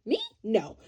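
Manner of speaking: comic loud freak-out, speeding up; mock panicked refusal. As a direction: play the coward begging the storm away. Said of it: "the rest of us are like".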